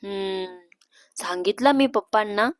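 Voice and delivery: subdued, starting on a soft hum; a touch downcast. Acted. Sister asked about telling the parents, a touch downcast. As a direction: answer with slight sadness. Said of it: "दी जरा उदास होऊन म्हणते".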